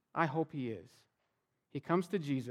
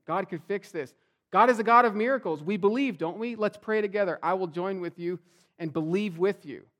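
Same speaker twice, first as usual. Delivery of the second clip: fervent encouragement; 2 semitones higher, 6 dB louder than usual. Acted. Encouraging a friend in crisis.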